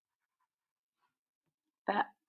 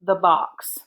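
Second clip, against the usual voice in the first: slow, word groups set apart by pauses; slow dictation; slower than usual. Shown as a demonstration. Teacher dictating a sentence to pupils, slow dictation. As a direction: dictate it slowly for writing down. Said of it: "the sentence I want to start with".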